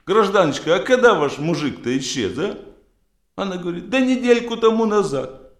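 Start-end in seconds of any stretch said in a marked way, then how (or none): 0.0-2.6 policeman voice. Acted. Policeman questioning a woman. 3.9-5.5 high woman voice. Acted. Wife answers the policeman.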